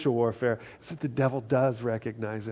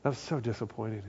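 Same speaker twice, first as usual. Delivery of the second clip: devil's whisper; 4 semitones lower, 10 dB quieter than usual. Retold or imitated. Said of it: "the devil comes in ... and goes".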